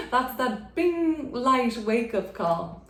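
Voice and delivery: laughing. Real, not acted. Joking about light turning on.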